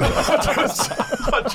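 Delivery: words squeezed out through high laughter; can barely speak for laughing; cracking up mid-sentence. Real, not acted. Laughing at awkward host.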